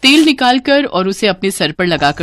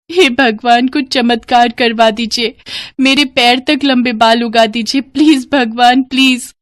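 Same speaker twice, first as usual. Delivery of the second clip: tearful prayer; 3 semitones higher than usual. Acted. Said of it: "भगवान से प्रार्थना करती थी".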